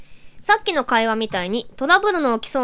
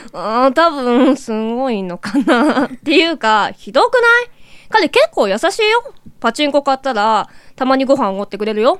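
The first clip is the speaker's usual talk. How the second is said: japanese gyaru slang. Acted. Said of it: "ギャルっぽくっていう指定だったんですけど".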